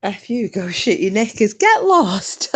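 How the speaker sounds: mock rude retort; half-hearted mock nasty voice; voicing a rude caller. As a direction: toss off the insult like the caller did. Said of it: "I can't believe he just said".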